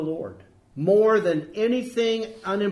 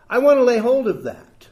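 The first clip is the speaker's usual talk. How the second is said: fervent declaration; 5 semitones higher, 8 dB louder than usual. Real, not acted.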